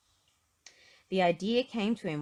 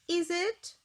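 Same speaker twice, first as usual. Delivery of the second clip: chuckling; 12 semitones higher, 5 dB louder than usual. Acted. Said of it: "chuckled Mister Happy".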